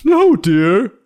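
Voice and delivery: very high, loud squeaky correction; squeaky ant voice. Acted. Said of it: "said the other ant".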